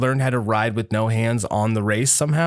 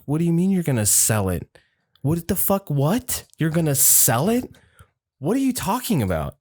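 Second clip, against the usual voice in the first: raised, incredulous what-the-hell; indignant disbelief; 6 semitones higher than usual. Retold or imitated. Grandson to grandma, retelling his shocked disbelief. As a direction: act out the outrage at grandma selling it.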